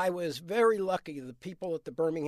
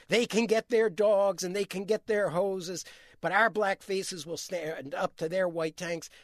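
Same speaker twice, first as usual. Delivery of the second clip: mild defiance in a retold quote; understated rallying defiance; fight coming back. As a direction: imitate a preacher regaining his fight, emphatic at first. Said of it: "you hear his fight come back".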